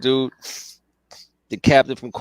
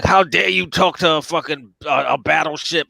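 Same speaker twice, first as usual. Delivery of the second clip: mildly indignant retold Klingon, slightly raised pitch; mock Klingon outrage; 3 semitones higher than usual. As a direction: act out an offended alien commander. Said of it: "he's in the screen all crazy".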